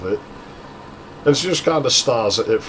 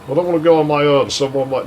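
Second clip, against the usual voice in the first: quick, higher mock whine; retold whining; 4 semitones higher, faster than usual. Girl afraid to go down alone, quick mock whine. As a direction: imitate a whiny protest in a rush. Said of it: "sick of hearing you whining".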